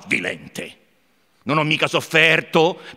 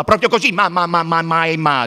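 louder excited stammering shout; 4 dB louder than usual. Acted. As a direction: cry out, tripping over the ma. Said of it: "gridò Ivan".

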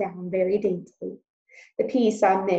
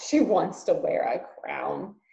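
mocking; slower than usual. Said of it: "Uncle laughed".

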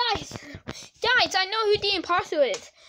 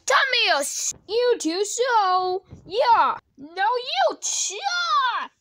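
loud, raised battle shouts; fight cries; 4 semitones higher, 5 dB louder, much slower than usual. Pretend. Character turning on Thomas in a fight, shouting. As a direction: call out as blows are traded.

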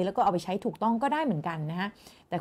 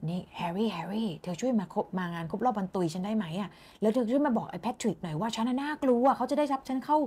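Nick; 4 dB quieter than usual. Acted. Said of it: "จากนิกมาหาแฮร์รี่ เพราะเขาตกลงกันว่า".

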